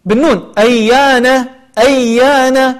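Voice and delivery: أيان ending in a clear n; n not m. Shown as a demonstration. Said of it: "فيقول أيامه".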